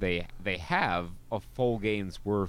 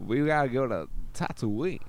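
high character voice; 6 semitones higher than usual. Pretend. Echoing parody.

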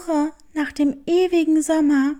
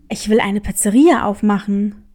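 grinning; 8 semitones lower than usual. Acted. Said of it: "Breit grinsend erklärte er".

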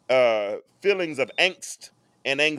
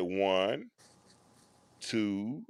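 soft, low counting aloud; calm counting; 6 semitones lower, 9 dB quieter than usual. Retold or imitated. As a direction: count slowly to settle her. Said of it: "that calming voice".

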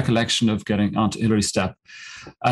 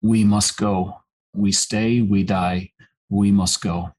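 urgent Sherpa; slower than usual. Retold or imitated. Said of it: "pulled my face next to his and he said".

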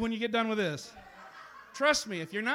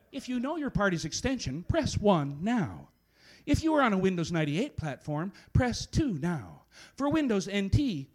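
phone menu voice. Acted. Poet voices automated phone menu.

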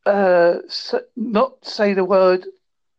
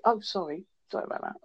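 mock polite apology; 10 dB quieter, faster than usual. Imitating overly polite Brits.

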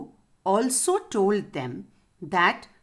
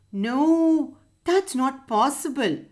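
alarmed protest; 4 semitones higher than usual. Acted. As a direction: cry out against the idea. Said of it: "said the other three unanimously".

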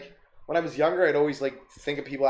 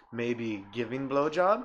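very slow, hesitant creepy ask; creepy proposition; 2 semitones lower, 3 dB quieter, much slower than usual. Retold or imitated. Driver at the red light, very slow creepy ask. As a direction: drag each word out, fishing. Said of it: "he's like".

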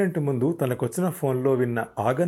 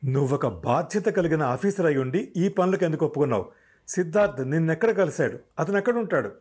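higher, pressing questions; insisting; 4 semitones higher than usual. Acted. Officer Vikram insists as Shravan dodges, pressing questions. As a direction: push harder with each question. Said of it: "రెట్టించి అడిగాడు విక్రమ్".

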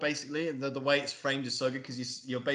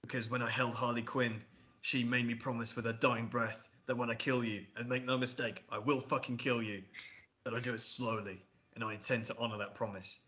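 soft retelling of a menacing monologue; Joker; 2 semitones lower, 5 dB quieter than usual. Retold or imitated. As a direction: quote a quiet, measured threat. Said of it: "and he's like".

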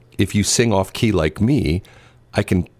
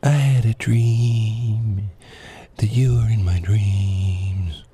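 very slow, airy whisper; a singer; 3 semitones higher, much slower than usual. Shown as a demonstration. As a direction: draw each word out in a hushed near-whisper. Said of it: "I'm gonna do an impression".

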